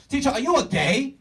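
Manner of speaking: loud, very high student outburst in a fake Asian accent; bad Asian accent. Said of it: "I'm just really bad at accents".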